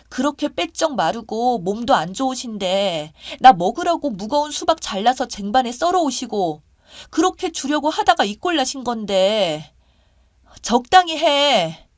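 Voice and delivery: loud, high, indignant scolding; appalled disbelief. Acted. Woman rebukes boyfriend for cursing the injured grandmother, appalled disbelief. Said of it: "너무 황당스럽고 어이가 없어서".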